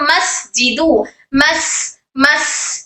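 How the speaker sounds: "मस" with long voiceless s, as in "मस्जिदू"; airflow on seen. Shown as a demonstration. Teacher models seen for students, "मस" with airy s. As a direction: hiss the s of "मस" freely. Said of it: "air flow करना है".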